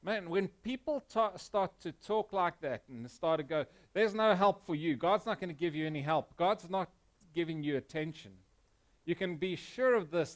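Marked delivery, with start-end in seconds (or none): 3.9-8.3 a hint of a taunting devil; devil's voice. Mild mock devil's voice taunting a struggling believer. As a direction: lightly voice the accuser's lie. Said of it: "that's the devil's voice".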